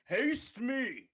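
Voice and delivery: all-out yelling, high-pitched and loud. A player in a game calls out for a spell as a free action, yelling. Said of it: "definitely yelling".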